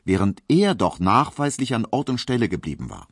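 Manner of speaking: plain reading voice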